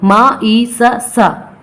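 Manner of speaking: मा ई सा, सा with the last sound said twice; doubled sound, wrong way. Shown as a demonstration. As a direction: wrongly sound out both letters, सा and सा separately. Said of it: "इस तरीके से नहीं करेंगे". (ग़लत तरीका, आख़िर में सा दो बार अलग-अलग)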